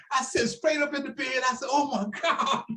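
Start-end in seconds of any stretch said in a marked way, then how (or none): 1.7-2.6 mock startled shout. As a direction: jolt upright in bed shouting. Waking to Ali's call.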